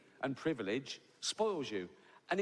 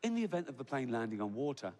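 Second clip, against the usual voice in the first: calm hypnotic voice. Retold or imitated. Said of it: "that calm, hypnotic voice".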